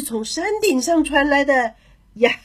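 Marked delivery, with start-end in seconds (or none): 2.1-2.4 high, long-held gleeful "yahey"; triumphant singsong far-away call. Acted. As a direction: holler from a hilltop, stretching the last syllable. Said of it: "他叫道".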